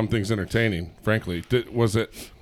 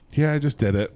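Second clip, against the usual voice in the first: mock-casual quote, slightly higher; nonchalant retelling; 5 semitones higher than usual. Host imitating how she tells her story, nonchalant. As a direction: toss it off as no big deal. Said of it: "you tell it in such a".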